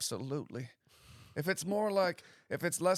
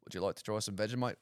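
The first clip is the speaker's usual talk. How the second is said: bad Australian accent; faster than usual. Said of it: "Worst Australian accent ever".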